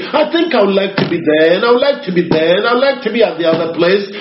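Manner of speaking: careless whim. Retold or imitated. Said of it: "simply look into my desires and carnally".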